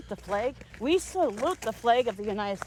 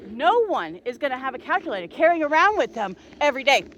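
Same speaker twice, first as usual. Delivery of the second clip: mocking quote; 6 dB louder than usual. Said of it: "and I quote".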